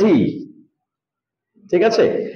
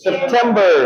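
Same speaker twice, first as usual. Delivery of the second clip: সেপ্টেম্বর with the টেম syllable hit harder; stress on tem; 3 semitones higher than usual. Shown as a demonstration. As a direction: lean on the middle of সেপ্টেম্বর. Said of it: "একটু জোর হবে".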